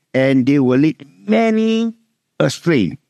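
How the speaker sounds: slow, with weight on "many"; slow down and lean on "many"; stressed warning. Shown as a demonstration. Pastor stressing the warning to the congregation, slow and weighty. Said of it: "Jesus says very clearly".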